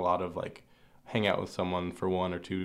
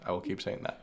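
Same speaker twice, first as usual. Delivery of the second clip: whispered aside; 6 dB quieter than usual. Real, not acted. Joking aside about the phrase.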